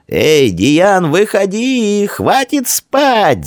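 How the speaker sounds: high calling shout, slow on the last words. A narrator's reading. Boy calls friend out of the hut, high drawn-out shout. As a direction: call out to wake a sleeping friend. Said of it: "закричал Идарий".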